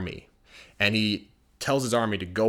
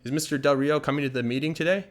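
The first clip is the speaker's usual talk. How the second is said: friendly friend; 5 semitones higher, 3 dB louder than usual. Acted. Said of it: "They'd be like".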